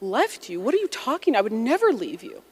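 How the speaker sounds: mock tearful protest, pitch leaping up mid-way; lightly acted wounded outburst with swooping pitch; retold crying mother. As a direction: imitate an upset mother's disbelief. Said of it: "And she's crying".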